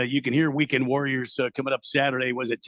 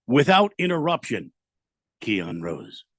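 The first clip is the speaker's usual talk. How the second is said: show-title announcement; slower than usual. Acted.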